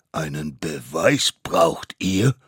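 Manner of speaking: loud, slow, weighty question; stern court breaking into the children's talk; cutting in as judge. Acted. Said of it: "fuhr das oberste Mammutgericht dazwischen". (laut dazwischenfahrender Richter)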